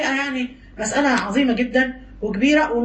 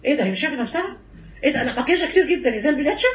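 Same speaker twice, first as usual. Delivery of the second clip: gossip mock; faster than usual. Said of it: "نتريق على العروسة".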